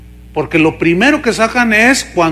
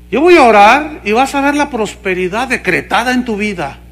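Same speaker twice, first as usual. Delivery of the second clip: mocking TV preacher. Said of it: "el otro dice".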